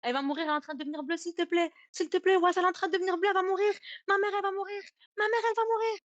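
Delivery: sobbing begging that keeps building in panic; retold crying plea. Cousin crying on the phone as his mother turns blue, rising tearful plea. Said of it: "Il commence à pleurer".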